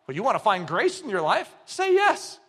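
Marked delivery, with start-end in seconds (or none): 1.7-2.4 God's voice. Acted. Voicing God's call.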